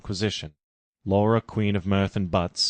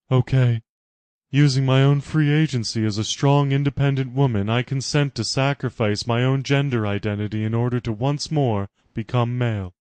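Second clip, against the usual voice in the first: higher and louder, hammed-up solemn vow; a mock-heroic oath; resolute Laura; 4 semitones higher, 4 dB louder than usual. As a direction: make a grand noble sacrifice. Laura's sacrifice speech.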